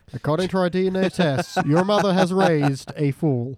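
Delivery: a hint of a talk show host reading results. Mocking a daytime talk show, mild host voice. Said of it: "a very weird episode of Maury Povich".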